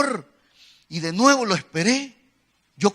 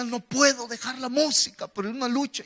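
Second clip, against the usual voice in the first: higher-pitched mock tearful lament; imitating tearful plea; 4 semitones higher than usual. Confessing to his pastor in the office, mock tearful. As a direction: plead as if near tears. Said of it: "llorando en la oficina".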